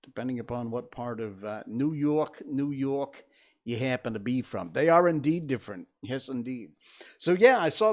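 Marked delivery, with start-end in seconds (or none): 1.7-4.7 lightly put-on "New Yawk" accent; New York accent. Shown as a demonstration. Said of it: "every borough really has its own".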